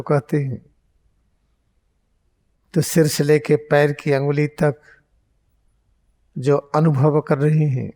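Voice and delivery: unhurried meditation teacher; guided meditation. Real, not acted. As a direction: guide them into focus with long pauses. Leads eyes-closed guided meditation.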